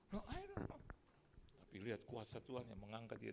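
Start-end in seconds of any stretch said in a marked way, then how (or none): 0.1-0.8 high, bewildered little voice; confused newcomer. Acted. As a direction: play a lost soul who knows nothing. Thief answers. (suara tinggi bingung orang baru)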